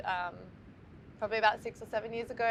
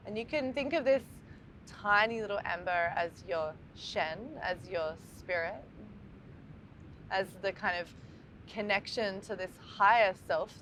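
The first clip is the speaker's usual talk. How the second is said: calm meditation guide, long pauses between phrases; guided meditation. Acted. Teacher guiding listeners to breathe into the heart, calm meditation voice. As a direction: lead listeners gently through the breath, leaving space after each phrase.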